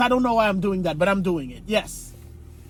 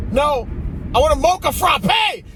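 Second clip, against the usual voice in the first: imitating his wife; 6 semitones higher, 5 dB louder than usual. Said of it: "My wife woke up and said".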